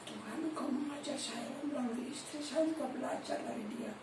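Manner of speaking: quietly addressed to God; hushed prayer. Retold or imitated. Retold private prayer to God.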